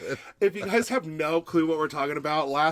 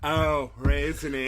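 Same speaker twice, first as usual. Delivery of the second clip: mimicking raisiny. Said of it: "after the clip".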